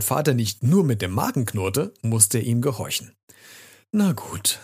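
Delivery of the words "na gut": high, resigned sigh; grudging child agreeing. A narrator's reading. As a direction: give in with a reluctant sigh. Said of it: "seufzte Rocco".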